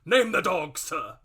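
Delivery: high, loud, fierce demand; the squire bristling for a fight; indignant demand. Acted.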